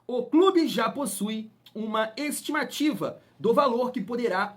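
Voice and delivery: slow, emphatic news-reader delivery; measured, punched-up article reading; news read-aloud. Acted. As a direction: read the report out slowly, word by word. Reads out a news item.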